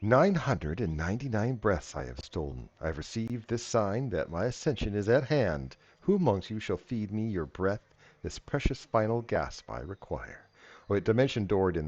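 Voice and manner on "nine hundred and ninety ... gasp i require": villain speech. Acted. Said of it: "Villain speech".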